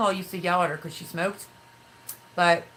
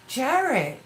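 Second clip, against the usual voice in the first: higher, louder imitated call; retold calling out; 8 semitones higher, 5 dB louder than usual. Grandmother suddenly noticing her grandson, imitated calling out.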